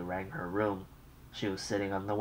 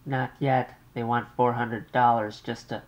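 higher, louder fretful mother's voice; an anxious mother on the line; 4 semitones higher, 6 dB louder than usual. Acted. Mother calls her daughter long-distance, fretful and raised.

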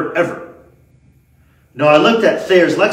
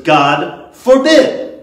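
very slow, loud, each word held; emphatic exclamation; 3 semitones higher, 6 dB louder, much slower than usual. Acted. Preacher quoting Paul's answer, slow and forceful. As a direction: proclaim it with weight on each word.

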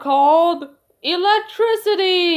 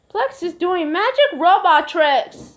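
calling out; 4 semitones higher, 4 dB louder than usual. Acted. Child calls out the news.

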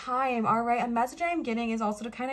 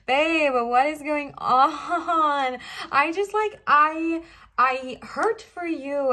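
real crying; 5 semitones higher, 6 dB louder, much slower than usual. Real, not acted. Reader tears up over the cards.

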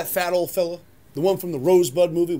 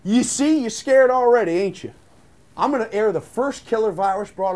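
unhinged villain; 6 semitones higher, 6 dB louder than usual. Acted. Boss gleefully taunting the employee.

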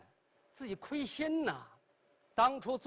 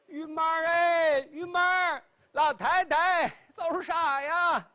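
put-on old lady shouting for her maid, high and loud; a raised, urgent call from the old mistress; 5 semitones higher, 6 dB louder than usual. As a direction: yell across the house for the servant.

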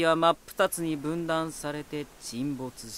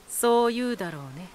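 scornful laugh; 8 semitones higher, 3 dB louder, faster than usual. Acted. Mocking laugh at sheltered listener.

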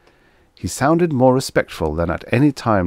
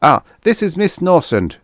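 high-pitched, louder introduction; Trent's high voice; 11 semitones higher, 6 dB louder than usual. A narrator's reading. Trent presents the girl to Guthrie, high-voiced. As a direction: introduce her in a high, eager voice.

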